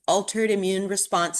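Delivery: choking on words mid-lecture; throat catching, choking while speaking. Real, not acted. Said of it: "sorry, I'm choking".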